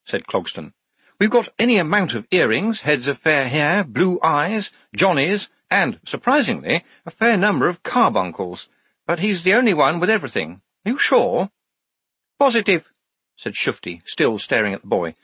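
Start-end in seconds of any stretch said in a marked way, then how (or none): 1.2-11.5 high, reasoning officer's voice; Major Clogston, explaining. A narrator's reading. Officer checking that Shufti rejects the candidate, high and questioning. 12.4-12.9 high, firm one-word answer; Shufti, certain. A narrator's reading. Shufti answering the officer about the boy, high and certain.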